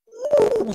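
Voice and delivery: a short high mock dragon cry; imitating a dragon's cry for the congregation; dragon roar imitation. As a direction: let out a quick hammed-up dragon howl. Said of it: "suaranya begitu".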